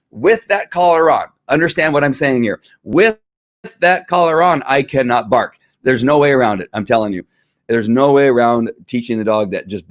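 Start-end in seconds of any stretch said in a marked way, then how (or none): 2.8-5.6 dog's voice. Retold or imitated.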